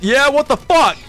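hammed-up tantrum kid yelling at staff; angry kid insults. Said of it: "Didn't you just go on a home visit?".

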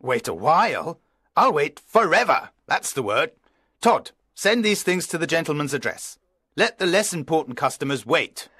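high, gushing eager voice; gushing servility. A narrator's reading. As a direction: fall over yourself to please. Owner fawning to millionaire.

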